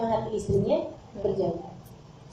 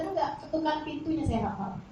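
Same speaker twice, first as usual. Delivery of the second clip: calm answer; 9 dB quieter than usual. Acted. Prophet calmly answers Aisyah.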